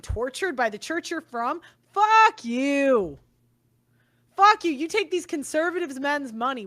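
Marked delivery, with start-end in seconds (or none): 1.9-4.7 furious shout. Real, not acted. Cursing the show host out in a loud fury. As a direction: spit it at them in real anger. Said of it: "I am pissed".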